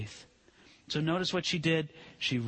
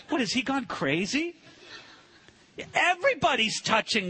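incredulous disciples; 5 semitones higher than usual. Acted. Disciples mocking Jesus incredulously.

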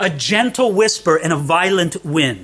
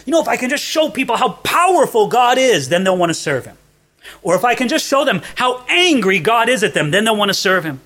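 eager preacher's thought; 5 semitones higher, faster than usual. Retold or imitated. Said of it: "us preachers to think that way".

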